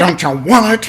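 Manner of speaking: high, loud, creepy horror clown voice. Retelling quoting the line back and forth with a friend: Pennywise voice. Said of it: "I used to quote that".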